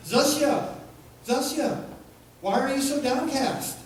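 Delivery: put-on high-pitched, loud Jewish accent for God. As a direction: call out to Zusia in a Jewish accent. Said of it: "God speaks with a Jewish accent".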